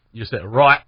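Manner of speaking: right ending in a throat stop, no tongue t; glottal stop on t. Shown as a demonstration. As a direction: cut right off at the back of the throat. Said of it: "it's almost like a glottal stop".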